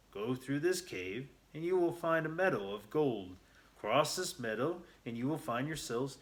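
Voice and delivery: put-on loud spooky old miner; old man's ghostly warning. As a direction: warn them off like a ghost of the saloon. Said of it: "The old man turned, looked at Luna, and said".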